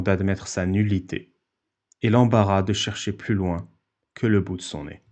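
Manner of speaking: measured, carefully articulated text reading; formal read-aloud. Acted. Host reading his written argument to the stream, formal read-aloud. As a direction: read it out like a solemn essay.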